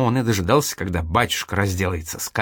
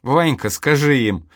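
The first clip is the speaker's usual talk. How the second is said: slow, a bit higher pleading call; 4 semitones higher, 3 dB louder than usual. Acted. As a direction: beg your brother to back you up. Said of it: "умоляюще призвал Петька". (умоляюще)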